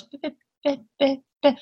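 tiny mimed lip-quiver pops; popping "bip" sounds, mock quiver; lip quiver noises. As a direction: mimic a quivering lip with little puffs. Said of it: "Her lip quivers, and she goes".

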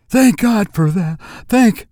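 high, emotional thanks, cut short; fervent relief. A narrator's reading. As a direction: pour out relief, then break off. Mother's relief, then breaks off.

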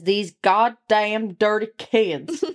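slow redneck drawl; Southern redneck accent. Acted. Host quotes the story, slow redneck accent. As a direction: drag each word out in a Southern twang. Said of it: "can't say that shit without an accent".

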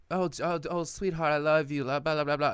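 high, sugary mock sweetheart voice; mock sugary girlfriend. Mocking dad's girlfriend cooing at him, high and sugary. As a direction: ham up her fake love talk.

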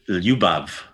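Ljubav with the lj blended together; Croatian lj sound. Shown as a demonstration. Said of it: "that L J sound".

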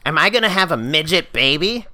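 high, loud imitated outburst; mock outcry. Woman storming into fireman class, high mock outcry. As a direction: blurt it out high and loud, hammed-up.

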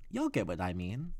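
a hint of a Southern accent on y'all; slip of Southern accent. Real, not acted. Host admitting a Southern accent creeping in. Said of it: "There's that Southern accent I don't have kicking in".

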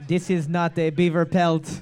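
hammy mock French accent. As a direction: put on a playful French accent. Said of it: "That's my best French accent".

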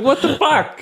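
high, disbelieving squeal through a laugh; incredulous what the fuck. Retold or imitated. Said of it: "I'm like".

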